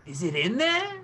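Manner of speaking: high, bright eager question; excited little hacker voice; eager young girl. Acted. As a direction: lean in, curious and eager.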